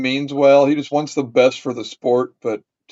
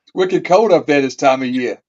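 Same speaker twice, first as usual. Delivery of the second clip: put-on Boston accent. Shown as a demonstration. Guest asked to do Boston, mock Boston accent. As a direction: imitate a Boston local's accent. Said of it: "Sure, I could do Boston".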